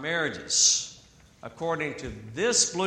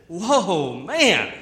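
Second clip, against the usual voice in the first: excited; 3 semitones higher, 8 dB louder than usual. Retold or imitated. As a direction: blurt it out, overjoyed at first sight. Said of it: "You see, he's excited".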